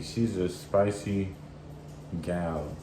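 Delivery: put-on slow playful Jamaican accent. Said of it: "In my Jamaican accent".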